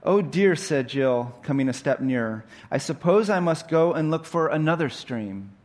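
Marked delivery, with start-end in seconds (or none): 0.0-0.5 put-on high, loud girlish dismay; dismayed Jill. Jill despairs before the lion at the stream, dismayed. 2.7-5.5 lightly voiced worried girl, pitched higher; a hint of fretting girl; dismayed Jill. Jill tells the lion she must search elsewhere, mildly dismayed.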